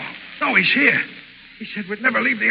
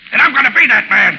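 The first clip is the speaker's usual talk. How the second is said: threatening; 2 semitones higher, 5 dB louder than usual. Acted. Ward threatens Burkett with gun.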